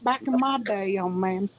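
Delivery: high scolding elder; imperious disapproving aunt. Acted. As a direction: wag a finger at the youngster. Old ghost scolding.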